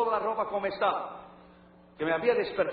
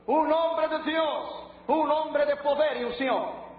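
slow reverent emphasis; 4 semitones higher, much slower than usual. Real, not acted. Extolling Smith Wigglesworth.

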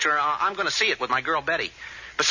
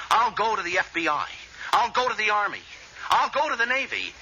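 building excitement; 4 semitones higher than usual. Acted. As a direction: work yourself up, step by step. Escalating boasts to boss.

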